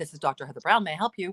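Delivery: formal, professional office phone tone. Showing how they answer a client's phone call: professional therapist phone tone. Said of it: "I have a therapist tone?".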